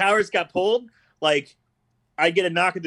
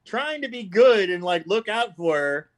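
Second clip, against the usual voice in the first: higher, slow, drawn-out sympathy; stretched-out, pitched-up poor-thing tone; mock pity; 5 semitones higher, slower than usual. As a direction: lament playfully for the poor soul. Mock pity for banned viewer.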